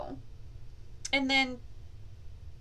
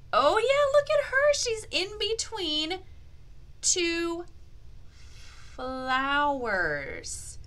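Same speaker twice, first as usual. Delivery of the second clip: much higher and louder; excited discovery; 7 semitones higher, 3 dB louder, slower than usual. Acted. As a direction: point it out gleefully.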